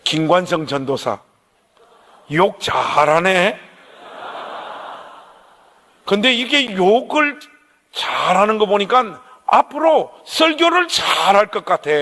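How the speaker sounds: a hint of a mild old pastor amused, not angry; calm gentle elder. Gentle pastor speaks to him.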